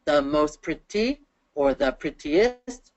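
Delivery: slow, segmented "most pretty" and "prettiest"; teacher's drawn-out "The most pretty"; syllable by syllable. Shown as a demonstration. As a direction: sound out "prettiest" beat by beat. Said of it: "that is four syllables".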